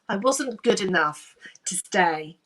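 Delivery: whispered, hurt admission; real emotion breaking through, whispered; emotional. Real, not acted. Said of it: "gosh, I get emotional now".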